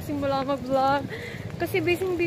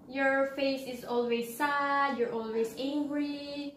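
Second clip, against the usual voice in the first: quoted complaint; 6 dB quieter, much slower than usual. Retold or imitated. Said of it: "She said that".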